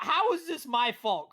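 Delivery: laughing. Real, not acted. Laughing mock protest to host.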